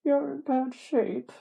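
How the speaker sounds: high, slow put-on voice; retried character voice. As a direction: pitch the narrator's line up, drawn out. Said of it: "What was the voice I was doing?".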